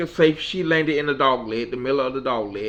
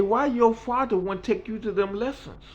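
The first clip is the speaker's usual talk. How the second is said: Mickey's voice; 9 semitones higher than usual. Retold or imitated. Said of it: "She said".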